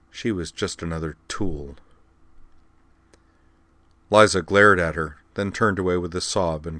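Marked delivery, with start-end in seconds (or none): 0.1-1.8 caustic. Acted. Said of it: "added caustically".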